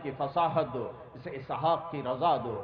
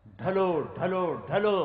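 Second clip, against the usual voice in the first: rising call; 4 semitones higher, 4 dB louder than usual. Acted. Rousing call to congregation.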